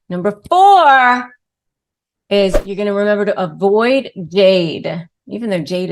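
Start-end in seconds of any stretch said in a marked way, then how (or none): 0.1-1.3 louder, higher, slow; emphatic announcement. Shown as a demonstration. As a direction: announce it with weight. Repeated with more emphasis.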